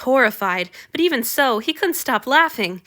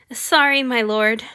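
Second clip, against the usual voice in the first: nervous servant; 3 semitones higher, 4 dB louder, slower than usual. A narrator's reading. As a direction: blurt an anxious apology. Nervous servant apologizes to god.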